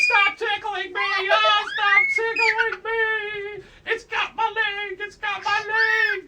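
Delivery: high, loud panicked shrieking; mock freaking out. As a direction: yell as if something has your leg. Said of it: "he's just freaking out, going".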